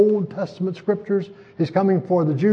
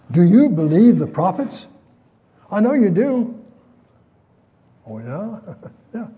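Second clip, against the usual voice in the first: higher, louder, pressing the king; pressing question; 6 semitones higher, 4 dB louder than usual. Retold or imitated. An insistent "do you believe" hammered at him. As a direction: push the question on him, eager. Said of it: "That's a sudden question".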